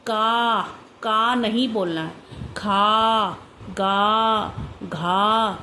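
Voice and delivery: loud, stretched kaa khaa gaa; shouting the letters the wrong way. Shown as a demonstration. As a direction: bark out the letters as a wrong example. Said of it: "ये ऐसे नहीं बोलना है".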